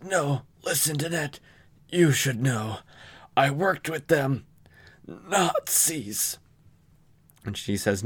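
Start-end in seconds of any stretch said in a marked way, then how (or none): 0.0-6.4 the father whispering his last words to his daughter; lightly voiced dying father.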